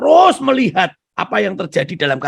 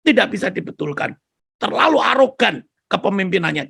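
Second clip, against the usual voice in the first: fed-up complaint; 4 semitones higher than usual. Retold or imitated. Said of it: "lalu dia bilang".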